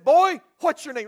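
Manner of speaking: loud, stern demand; demanding officer. Acted. Officer shaking the ragged boy, loud stern demand. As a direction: shake the answer out of him.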